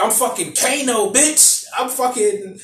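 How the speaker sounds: high-pitched boastful trash talk; mock swaggering introduction; Kano. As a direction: brag aggressively, as a hammed-up impression. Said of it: "He starts going in".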